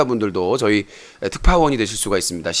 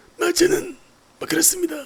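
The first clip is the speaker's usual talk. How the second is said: roughened voice, lifted higher in pitch; 4 dB quieter than usual. Showing how his earlier impression used to sound: husky Lee Myung-bak impression. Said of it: "예전에는 좀 탁하게".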